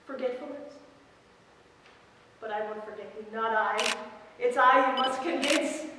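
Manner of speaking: a possessive rival taunting, then coaxing; acted rival monologue. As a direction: lure him in, then mock the one who lost him.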